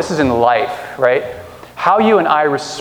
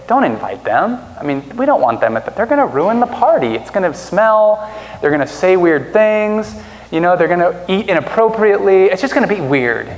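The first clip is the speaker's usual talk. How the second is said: higher, disdainful guest voice; snooty guests; 5 semitones higher than usual. Retold or imitated. Preacher mimicking snobs who object to the guest list, lightly sniffy. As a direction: sniff at the riffraff.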